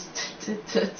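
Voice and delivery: soft, breath-only snicker; lightly acted mischievous cackle; quiet mocking little laugh. A narrator's reading. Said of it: "Peeves cackled".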